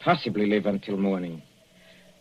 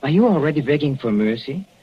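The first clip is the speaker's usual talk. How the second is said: taunting villain; 3 semitones higher than usual. Acted.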